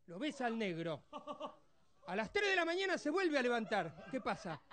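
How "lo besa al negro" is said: normal talking voice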